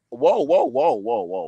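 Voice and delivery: jumps high, startled protest; surprised whoa. Real, not acted. Friend hears a bold boxing take, surprised protest. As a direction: pull him up short in disbelief. Objects to bold prospect claim.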